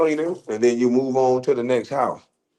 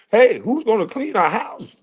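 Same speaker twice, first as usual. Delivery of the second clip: high mock-worried whine; lightly voiced pearl-clutching liberal; mock Democrat voice; 8 semitones higher than usual. Mocking Democrats fretting over lost house cleaners, high mock whine. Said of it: "I was sounding like them goddamn Democrats".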